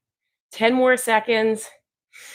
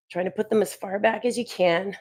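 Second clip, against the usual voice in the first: quivering voice mid-hold; shaky voice; 4 dB quieter than usual. Real, not acted. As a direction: voice shaking from the strain. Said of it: "You can hear my voice shaking".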